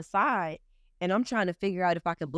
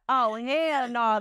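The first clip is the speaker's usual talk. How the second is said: hell no; 5 semitones higher, 4 dB louder, much slower than usual. Retold or imitated. Seeing the second carry-on.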